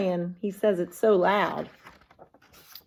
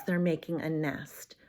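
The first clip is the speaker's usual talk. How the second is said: whisper; 6 semitones lower, 6 dB quieter than usual. Real, not acted. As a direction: lean in and whisper it. Teacher whispers aside to kids.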